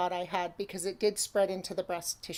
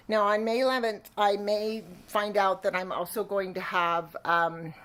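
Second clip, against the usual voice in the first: slightly out of breath; winded, catching her breath. Real, not acted. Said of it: "sorry, I'm still winded".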